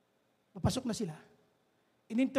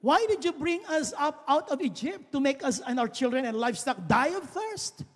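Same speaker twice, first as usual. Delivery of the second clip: sarcastic; 4 semitones higher than usual. Acted. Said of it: "ang sasabihin nila rito ay very sarcastic".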